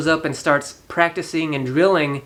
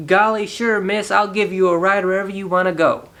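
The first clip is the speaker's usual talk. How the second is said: eager, higher aw-shucks voice; naive nice guy; 3 semitones higher than usual. Retold or imitated. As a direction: play the wide-eyed innocent kid, bright and higher. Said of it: "being Henry, is like".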